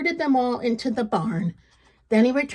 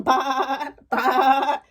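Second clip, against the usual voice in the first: sheep bleat; 2 semitones higher than usual. Acted. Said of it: "The sheep began to loudly sing".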